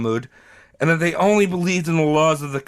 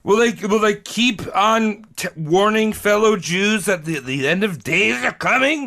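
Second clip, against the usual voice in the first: higher, dramatic cliffhanger narrator; drunk cartoon narrator; 4 semitones higher than usual. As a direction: tease the next episode like a cartoon outro. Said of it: "Why do you sound like a drunk guy at the end of a seventies cartoon?".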